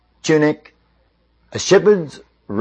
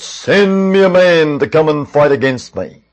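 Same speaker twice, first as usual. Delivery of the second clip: mildly booming mock giant call; booming challenge. Giant challenging the Israelites across the valley, lightly booming. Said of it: "that great booming voice".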